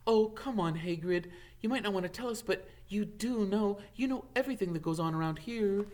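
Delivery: butter him up gently; a touch of flattery for the gamekeeper; warm, flattering. A narrator's reading. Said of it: "in a warm, flattering voice".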